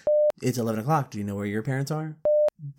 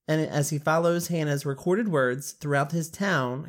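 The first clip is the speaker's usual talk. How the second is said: reading with a swollen tongue; tongue too big, words thick. Real, not acted. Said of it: "Why is that hurting my tongue?".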